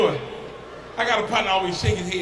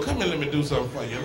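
put-on old club man; 7 semitones lower, 7 dB quieter, faster than usual. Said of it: "how them old men be in the club".

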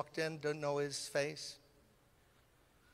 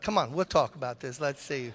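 Brooklyn attitude; 2 semitones lower, 6 dB louder than usual. Retold or imitated. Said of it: "Because I was born in Brooklyn".

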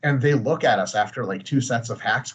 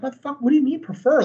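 incredulous, pitched way up; mock indignant retort; 11 semitones higher than usual. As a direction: react like the question insults you. Retorting to annoying commenter.

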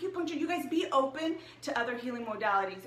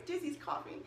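quick real whisper aside; hushed whisper so as not to disturb; 4 semitones higher, 7 dB quieter than usual. Real, not acted. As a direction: drop to a whisper mid-sentence. Aside about the coughing dog.

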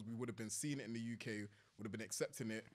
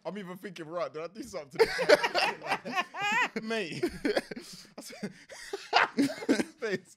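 high, loud, wheezing laughter through words; laughing hard; 10 semitones higher, 14 dB louder than usual. Real, not acted. Laughing at a friend who threatened to punch him. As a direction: lose it completely while talking.

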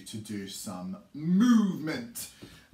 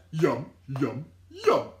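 chirpy little bird enjoying food; 2 semitones higher, 8 dB louder than usual. Acted. Teacher voicing the first bird eating its crumb. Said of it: "the first little bird said".

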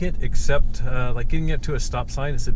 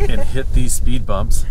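on a bumpy road; 5 dB louder, slower than usual. Real, not acted. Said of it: "Sorry for the, the bumps".

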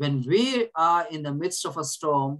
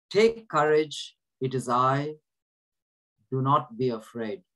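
slow reassuring words; 2 semitones lower than usual. Shown as a demonstration. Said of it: "Jesus is saying right now".

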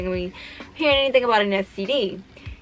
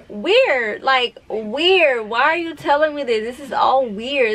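weirded out; 4 semitones higher than usual. Real, not acted. Reacting to weird texted comment.

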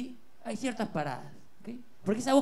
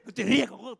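laughing scold; 3 semitones higher, 4 dB louder, faster than usual. Acted.

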